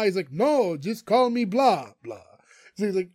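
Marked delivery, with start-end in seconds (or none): 0.3-2.2 slow, deliberate insistence on the name; measured, insistent correction; patient correction. Retold or imitated. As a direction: spell it out slowly, like to a child. Count Blah correcting Greg.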